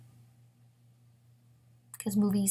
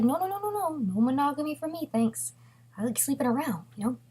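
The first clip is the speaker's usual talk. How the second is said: higher-pitched mock slacker refusal; breezy brush-off; 6 semitones higher than usual. Boyfriend turning down monogamy, breezy brush-off. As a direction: wave it off in a raised, acted voice.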